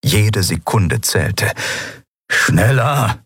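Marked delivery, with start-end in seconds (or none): 2.3-3.2 antreibend. Acted. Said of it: "trieb er seinen ersten Offizier unnötigerweise an".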